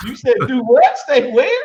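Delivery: playful high incredulous questions; mock disbelief. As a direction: act amazed, asking again. Host feigns disbelief at answer.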